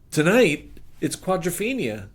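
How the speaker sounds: can't believe the timing; shocked. Retold or imitated.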